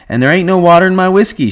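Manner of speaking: high, loud madam impression; Susie. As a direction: proclaim it in a mimicked madam's voice. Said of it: "she says".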